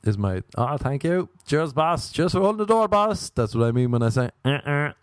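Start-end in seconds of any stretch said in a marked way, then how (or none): 0.6-3.3 rising, higher-pitched cheery thanks; eager, climbing gratitude; effusive thanks. Acted. Acting out what the honk means. 4.4-4.9 higher two-note car-horn noise; vocal honk, pitched up. Shown as a demonstration. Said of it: "The high-pitched one".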